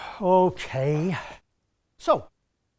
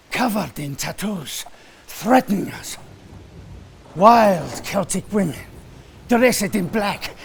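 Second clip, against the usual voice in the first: put-on Italian accent. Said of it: "perhaps I can practice my Italian accent?".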